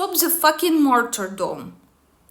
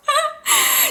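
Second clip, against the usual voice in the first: short, high-pitched laugh; scornful laugh. Real, not acted. Vlogger scoffs at blaming the photographer, scornful laugh. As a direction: let out a quick incredulous high laugh.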